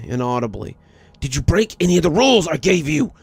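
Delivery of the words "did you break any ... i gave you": higher, faster, louder demand; raised voice. A narrator's reading. Father pressing his wife for an answer, voice raised. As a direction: push the question harder, losing patience. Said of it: "His voice raised again".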